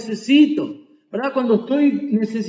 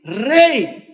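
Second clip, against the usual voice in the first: louder plea, rising on Jesús; pleading cry; 4 dB louder than usual. Retold or imitated. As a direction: call out to the king for mercy. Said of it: "el ciego comenzó a decir". (el ciego suplica al rey en voz alta)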